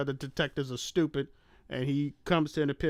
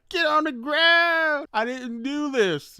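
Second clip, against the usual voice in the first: much higher, louder, slow yelled command; mock cop shout; 11 semitones higher, 6 dB louder, slower than usual. Host acting out cops yelling at Liam Neeson, mock shout. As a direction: bellow the order like a panicked cop.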